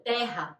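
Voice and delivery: "Terra" with an open E, as TEH-ha; open-vowel "Terra"; Portuguese open E. Shown as a demonstration. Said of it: "Siempre vas a decir todo cerrado".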